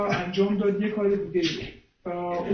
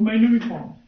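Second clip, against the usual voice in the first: a touch louder, pressing demand; insistent call; 2 semitones higher, 5 dB louder, faster than usual. Retold or imitated. Blind beggar pressing his plea, a little louder. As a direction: push the want out firmly. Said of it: "صداشو کشید و فریاد کشید".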